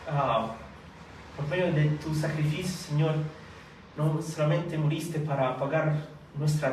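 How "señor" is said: normal talking voice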